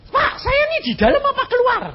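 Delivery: high, pleading question; frightened caller. Retold or imitated. Scared caller asks the pastor whether to leave: high pleading voice. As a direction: ask anxiously whether to stay or flee.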